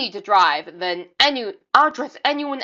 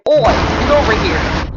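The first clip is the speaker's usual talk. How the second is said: loud Australian oi, called out; Australian accent; 5 dB louder than usual. Shown as a demonstration. Reactor showing off an Australian accent. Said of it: "with my Australian accent".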